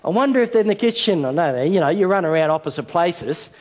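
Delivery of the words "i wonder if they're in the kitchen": high, sing-song pretend search; a father pretending to search the hall; mock wondering. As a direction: ham up not knowing where the kids are.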